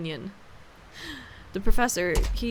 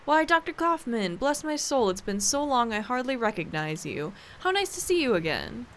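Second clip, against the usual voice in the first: put-on higher, delighted old housekeeper greeting; lightly voiced housekeeper; 5 semitones higher than usual. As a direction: welcome the doctor like a fussy old servant.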